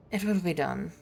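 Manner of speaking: imitating a clipped English accent; mock English officer accent. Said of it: "he suddenly turned English".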